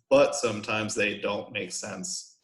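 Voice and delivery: slow and evenly measured; counted-out syllables. Shown as a demonstration. Teacher correcting the count of a haiku line, slow syllable-by-syllable delivery. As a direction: tick off each syllable of "but sometimes they don't make sense". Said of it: "We can count that out".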